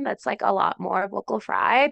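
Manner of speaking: put-on slow Valley Girl voice with vocal fry; Valley Girl accent. Shown as a demonstration. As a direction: drag it out, Valley Girl style. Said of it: "when I do that Valley Girl accent".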